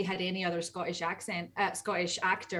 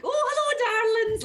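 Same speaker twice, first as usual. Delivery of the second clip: Horizon; 8 dB louder than usual. Acted. Actor showing her character's usual side, exaggerated sweet greeting. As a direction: sing out the greeting, sweetly hammed up. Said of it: "she wasn't just like".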